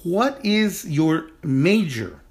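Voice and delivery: "What is your major?" said slowly and deliberately for students; slow model sentence. Shown as a demonstration. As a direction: lay out each word slowly like a teacher. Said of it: "So our sentence is".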